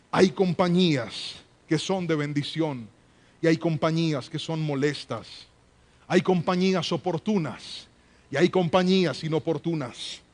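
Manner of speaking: ordinary delivery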